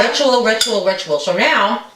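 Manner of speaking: mouth full. Real, not acted. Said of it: "I'm on camera talking with my mouth full".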